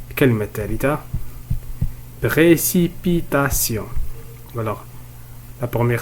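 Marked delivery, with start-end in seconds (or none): 2.2-3.9 "Précipitation" said slowly, each syllable clear; slow, careful model of "Précipitation". Shown as a demonstration. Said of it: "On va découper ces mots en syllabes".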